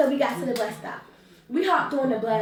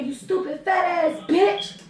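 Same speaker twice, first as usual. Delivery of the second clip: higher, drawn-out mock yell; screamed insult; 5 semitones higher than usual. Relative cussing as she comes in, mock screaming. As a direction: imitate a cussing-out, slow and raised. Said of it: "screaming from the top of her lungs".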